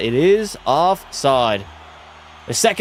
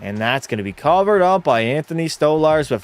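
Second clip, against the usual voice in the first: hockey commentator calling the game; steady sports-broadcast call, settling as play continues; live play-by-play. Acted. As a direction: call the action like a broadcast announcer.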